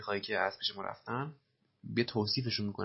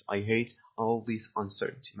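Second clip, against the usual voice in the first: slow repeat; much slower than usual. Shown as a demonstration. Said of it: "slow model reading".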